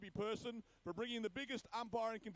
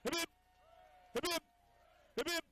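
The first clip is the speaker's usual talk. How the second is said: calling out; 7 semitones higher, 3 dB louder, faster than usual. Real, not acted. Leading three cheers for umpires.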